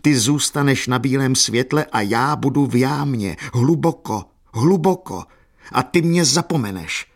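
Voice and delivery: wild outcry. A narrator's reading. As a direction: cry it wildly, pitch climbing on the repeats. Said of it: "zvolal divoce na Katerinu". (divoká, zoufalá výčitka)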